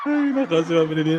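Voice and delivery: high, loud exclamation through laughter; laughing. Real, not acted. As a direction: exclaim while still cracking up. Still laughing from the chat. (natatawang bulalas)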